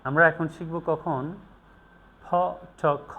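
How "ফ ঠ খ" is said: "ফ, ঠ, খ" each pushed out with a puff; forceful aspirates. Shown as a demonstration. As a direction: sound out "ফ, ঠ, খ" with force. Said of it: "জোর দিয়ে বলা হয়". ("ফ, ঠ, খ" জোর দিয়ে আলাদা করে)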